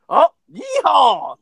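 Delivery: a slow, drawn-out yeehaw; mock cowboy yeehaw. Mocking Brock as a cowboy, slow drawn-out yeehaw. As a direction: ham it up lightly like a cowboy. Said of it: "fucking cowboy hat".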